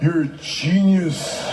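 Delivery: mock praise. Sarcastic praise after the quote.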